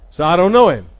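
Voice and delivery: very loud, forceful outburst; cursing denial. Acted. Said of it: "He cursed, swore".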